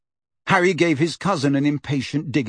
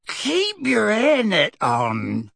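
cowering; 8 semitones higher, much slower than usual. Acted.

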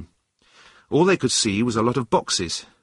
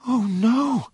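high, dismayed cry; cried out; 13 semitones higher than usual. A narrator's reading. Runaway learning his uncle is dead, cried out. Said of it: "cried John".

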